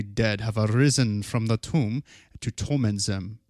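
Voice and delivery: lightly voiced German scholar, hushed; German scientist voice. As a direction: read it like an old German scholar. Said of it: "your German scientist voice".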